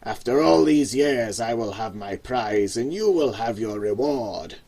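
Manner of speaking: put-on the hunched old man promises V his reward; sly old man.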